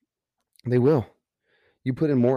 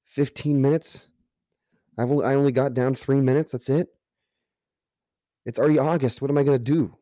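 higher, dismayed retelling of his own reaction; replaying the heartbreak of a bad time, pitched up; devastated disbelief; 4 semitones higher than usual. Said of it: "I was devastated".

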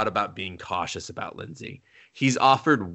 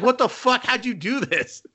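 much higher, laughing mock disbelief; shocked disbelief; 12 semitones higher than usual. Goddess stunned by the hero's level, high mock shock. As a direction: blurt it out, stunned.

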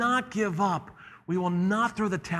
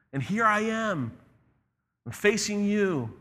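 put-on complaining boy; 5 semitones higher than usual. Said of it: "begins to complain and say".

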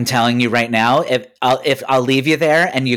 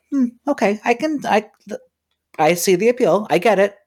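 mocking voice; 9 semitones higher, faster than usual. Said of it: "I'm like".

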